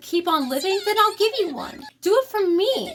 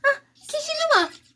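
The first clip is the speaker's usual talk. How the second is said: relieved cry; 10 semitones higher than usual. Acted. Relieved cry on finding friend.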